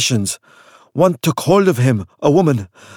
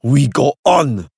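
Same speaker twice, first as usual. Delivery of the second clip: growling; slower than usual. Acted. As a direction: growl it, refusing to quit. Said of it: "Osman growled".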